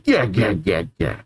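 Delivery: demonic laugh. Acted. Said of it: "now demonic Dory says".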